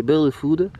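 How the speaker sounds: put-on bird food in a jokey English accent; English accent on bird food, tongue in cheek; mock English accent. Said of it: "avec mon accent anglais". (accent anglais moqueur sur bird food)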